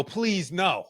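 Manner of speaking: high, pleading "please, no"; mock begging. To the EMTs cutting his sweatshirt, high mock begging.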